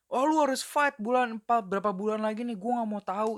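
high, insistent imitation of pressure; mock pressuring demand. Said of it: "kalau misalnya lu di pressure gitu".

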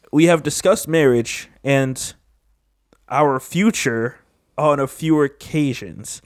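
slow, deliberate reading; careful slow reread. Real, not acted. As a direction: read it out word by word. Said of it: "I'm trash at reading".

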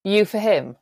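mock Mohawk chief. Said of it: "the Mohawk would go".

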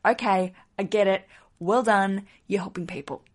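imitating a fed-up husband; mock grudging praise, lightly voiced; unimpressed jerk husband. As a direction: play the husband who has heard enough. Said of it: "made Rich sound like a real jerk".

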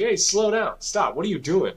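high, urgent calling out to stop; alarmed dad. Retold or imitated. Dad stops son sprinting off.

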